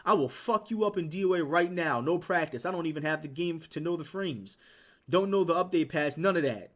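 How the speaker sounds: imitating a mad challenger; mock angry. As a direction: act out his trash talk, punchy and loud. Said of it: "Why is he so mad".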